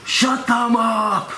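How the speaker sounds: high, drawn-out gnoll shout; shouted order over barking dogs; loud yell. Acted. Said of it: "one of them yells out really loudly".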